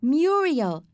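high, loud call. A narrator's reading. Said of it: "Sheila called".

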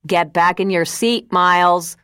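shouting. Acted. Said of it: "shouted from the front".

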